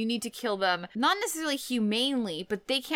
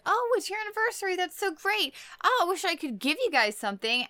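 gushing Sybil; 8 semitones higher, faster than usual. Retold or imitated. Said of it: "And Sybil's like".

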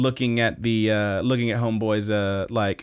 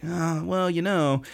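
laid-back shrug; 6 semitones higher, slower than usual. Retold or imitated. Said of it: "He's just kinda like".

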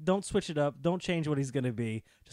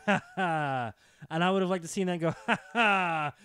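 imitated laughing. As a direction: act out his laugh at it. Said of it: "liked him kinda laughing at it".

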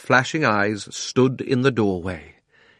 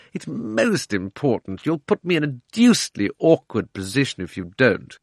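lightly voiced pleading uncle, slightly higher; wheedling uncle; 4 semitones higher than usual.

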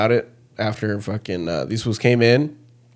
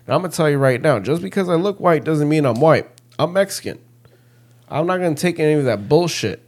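retold defiance; 5 semitones higher than usual. Retold angry speech to director.

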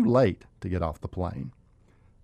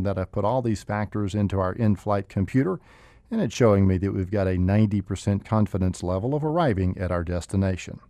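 calm, slightly lower pilot PA voice; airline captain announcement; 3 semitones lower than usual. Acted. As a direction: reassure passengers over the intercom. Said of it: "this is your captain speaking".

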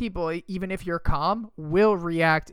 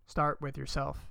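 softer and slower, letting it sink in; soft repeat; 2 semitones lower, 6 dB quieter, slower than usual. Acted. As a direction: say it again gently and slow. Repeats advice, second time softer.

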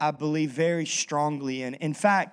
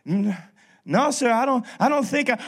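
hint of a Cajun drunk, pitched up; attempted Cajun accent; 4 semitones higher, 3 dB louder than usual. Boudreaux sputtering to the preacher in a Cajun accent. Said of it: "my attempt at the accent".

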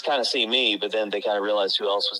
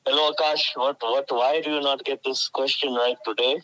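a light, hammed-up Indian accent put on for the class; 3 semitones higher than usual. Teacher greets a student in a mild Indian accent. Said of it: "What's your Indian accent sound like?".

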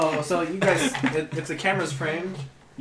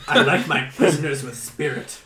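laughing villain; 7 dB louder than usual. Acted.

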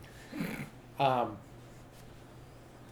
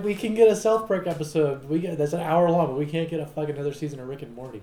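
mocking studio voice; 3 semitones higher, 7 dB louder than usual. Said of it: "They're like".

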